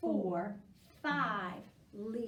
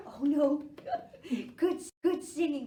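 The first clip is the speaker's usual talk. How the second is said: laughing; 3 semitones higher, 7 dB louder than usual. Real, not acted. Laughs after the scream.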